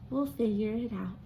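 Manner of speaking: soft whisper. Acted. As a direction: say it gently to each other. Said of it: "They smiled and whispered".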